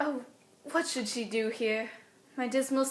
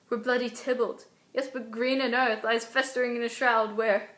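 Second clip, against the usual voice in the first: worried, scared stage soliloquy; understated dread, thinking through each fear with pauses; Juliet. Acted. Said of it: "scared kind of mixture".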